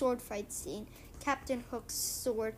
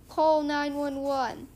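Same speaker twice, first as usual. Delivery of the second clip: louder, alarmed call for 911; panicked cry for help; 3 semitones higher, 6 dB louder, slower than usual. Acted. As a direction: yell for help in a mock panic. Allergic customer panics.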